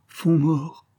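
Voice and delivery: the fear breaks upward; a touch of panic in the rise; terrified repeat. Acted. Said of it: "en répétant avec terreur".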